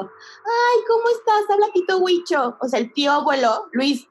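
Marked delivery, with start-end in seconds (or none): 0.0-2.6 put-on very old man. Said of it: "sonaba una voz de viejito".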